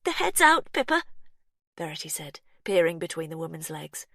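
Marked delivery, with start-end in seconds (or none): 0.0-1.0 high, loud call; excited announcing. A narrator's reading. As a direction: announce it with urgency. Verity announcing.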